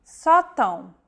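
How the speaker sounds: "sótão" stressed on an open first O, with a nasal unstressed ÃO ending. Shown as a demonstration. Teacher demonstrating acute and tilde: "sótão". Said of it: "stressed vowel is marked by an acute".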